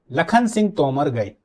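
तोमर said as one word, then गए; name said as one. Shown as a demonstration. Teacher reads the sentence to students, तोमर as one word. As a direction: keep तोमर whole, no break inside. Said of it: "फिर से सुनिए".

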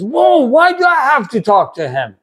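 hint of a put-upon teenager; imitating reluctant son. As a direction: mimic a kid who doesn't want the phone. Son reluctant about phone call.

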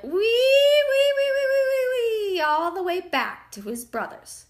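very high, loud storybook squeal; pig squeal. A narrator's reading. Pecked pig runs to his brothers, squealing. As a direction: squeal all the way like a fleeing pig.

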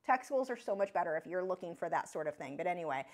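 ordinary talk

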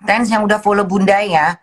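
calls out her thanks loudly to the viewers; big booming shout-out to new followers. Real, not acted. (berteriak keras berterima kasih ke pengikut baru)

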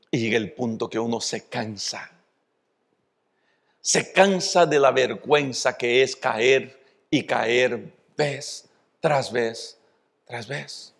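preacher slowing into exhausted shame; weary fading. Real, not acted. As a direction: let it fade out in weariness. Weary repetition of falling.

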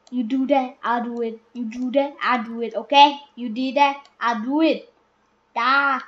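loud, bossy orders to a sibling; loud bossy kid; bossy shout. Pretend. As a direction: bark the orders at him. Bossing a sibling in play.

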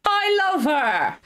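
slow, choked-up cry of affection; teary. Real, not acted. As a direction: blurt it out through real tears. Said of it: "we cry, we cry".

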